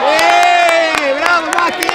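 loud high shout of praise; touchline cheer. Real, not acted. Coach praising Macchi from the touchline, loud cheer. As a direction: cheer the player across the pitch.

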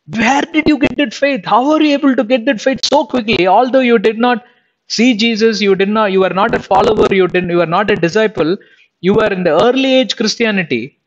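high, amazed asking, building wonder; awed question. Pretend. Preacher imagines asking martyr Stephen about his faith, amazed.

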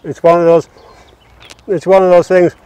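talking while chewing cake; words round a mouthful of cake; mouth full. Real, not acted. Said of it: "Talking with your mouth full now".

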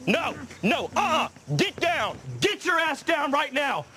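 angry shout. Acted. Dad yelling at a kid on his jet ski, angry shout. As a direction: bark the order, full volume.

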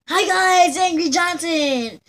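lightly voiced YouTuber greeting, slow on the name; Angry Johnson intro. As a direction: play a hint of a grumpy show host saying hi. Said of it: "maybe I should call Angry Johnson T V".

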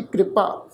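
ਕਿਰਪਾ with the short i after the r, kri-pa; teacher's model reading of ਕਿਰਪਾ, kri-pa; careful pronunciation. Shown as a demonstration. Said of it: "ਇਸ ਸ਼ਬਦ ਦਾ ਪਾਠ ਉਚਾਰਨ ਕਰਾਂਗੇ".

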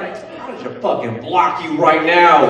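slow, mock-mad threat; retold anger. Comic reacting to a lazy birthday text, mock mad. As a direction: stretch out the threat in exaggerated annoyance. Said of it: "I was so mad".

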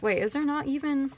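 surprised. Real, not acted. Discovers missing kit page.

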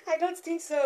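high-pitched wail breaking into laughter; laughing mock despair. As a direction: whine it, then laugh.

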